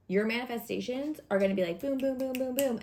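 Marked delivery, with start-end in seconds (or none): 1.8-2.8 higher, bouncy run of booms; excited string of hits; rapid-fire booms. Acted. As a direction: pop them out one after another. Voicing manifestations landing one after another.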